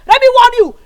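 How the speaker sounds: loud, heated warning; angry threat. Acted. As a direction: threaten her with rising heat. Threatening friend in quarrel.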